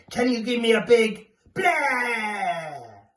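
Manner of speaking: put-on slow, drawn-out call to the kids. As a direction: call it out to the whole class. Teacher calls out to children.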